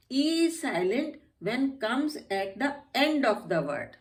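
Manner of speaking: very slow, measured rule read; slow rule dictation. Shown as a demonstration. Teacher dictating the silent E rule slowly. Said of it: "उसके बाद हम आ जाते हैं ई".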